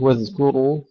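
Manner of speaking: واذكروا with thin, light ذ and ك; light dhal and kaf. Shown as a demonstration. Teacher showing students the letters, light واذكروا. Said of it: "نرقق".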